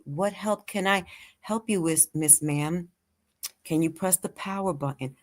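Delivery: patient, gently measured questions; slowed calming tone. Acted. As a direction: talk an elder calmly through computer steps. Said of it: "know how to slow down their tone".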